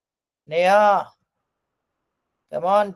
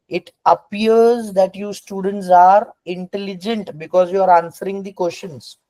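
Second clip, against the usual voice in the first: slow example; 3 semitones higher than usual. Shown as a demonstration. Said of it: "जब उसने कहा it appears".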